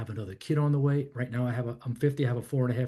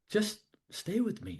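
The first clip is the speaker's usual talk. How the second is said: softer and gentle, holding him in the moment; lowered voice; 7 semitones higher, 6 dB quieter than usual. Retold or imitated. Counselor keeping Stephen present, softly lowered voice. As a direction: quietly ask him to stay present. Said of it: "And he lowered his voice".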